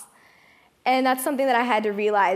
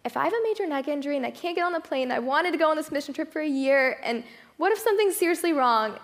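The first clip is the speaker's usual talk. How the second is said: higher, rushed worried thoughts; freaking out; 5 semitones higher than usual. Retold or imitated. Teen fearing she can't fly to Thailand, rushed and higher. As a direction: spill the fears fast and anxious. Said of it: "I was freaking out".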